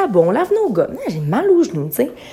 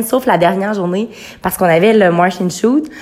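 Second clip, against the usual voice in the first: ordinary talk, nothing marked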